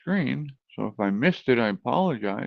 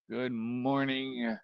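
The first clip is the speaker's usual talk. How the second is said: radio voice; 6 dB quieter, much slower than usual. Shown as a demonstration. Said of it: "talk like this and over-enunciate".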